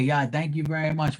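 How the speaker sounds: dad walking past son, careless thanks; offhand thanks in passing. Retold or imitated. Imitating dad, tossed off. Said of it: "He'll walk across and say".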